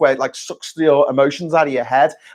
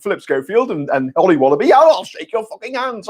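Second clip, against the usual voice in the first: Boris Johnson; 4 semitones higher than usual. Retold or imitated. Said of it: "we have Boris Johnson saying".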